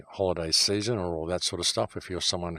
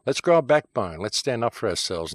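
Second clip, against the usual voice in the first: heated rallying cry; 3 semitones higher, 4 dB louder than usual. Real, not acted. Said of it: "I got a little emotional there".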